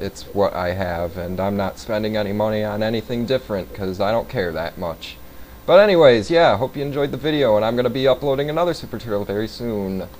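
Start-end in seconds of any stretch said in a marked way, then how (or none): 5.6-10.1 upbeat outro. Real, not acted. Upbeat video sign-off.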